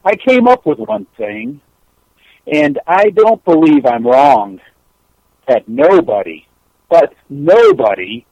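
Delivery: measured recital with long pauses; poem recital. Acted. Caller shares a poem by Maya Angelou, measured recital. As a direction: set each short phrase apart, unhurried.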